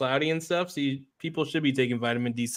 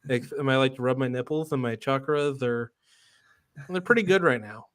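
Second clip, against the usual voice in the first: lazy, self-satisfied hipster voice; IPA hipster voice. Pretend. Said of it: "this is my I P A hipster voice".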